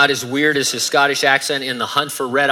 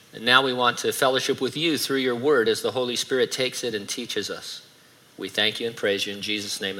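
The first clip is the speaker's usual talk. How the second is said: prayer; 2 semitones lower, 3 dB quieter than usual. Real, not acted. Preacher leading the congregation before the message, hushed prayer. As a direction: pray quietly and reverently, winding down.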